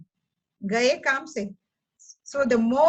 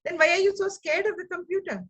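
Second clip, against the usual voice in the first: teasing son; 6 semitones higher than usual. Retold or imitated. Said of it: "He said".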